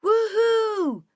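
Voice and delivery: very high, loud whoop; young colleague cheering at the celebration, whooping; shouting. A narrator's reading. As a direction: let out a joyful whoop. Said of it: "Jacob is shouting".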